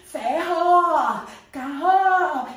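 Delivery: "Ferro, carro" with rolled doubled R sounds. Shown as a demonstration. Teacher asks for the doubled R, rolled in both words. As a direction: roll the R in "Ferro" and "carro" smoothly. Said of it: "Agora eu quero um R dobrado".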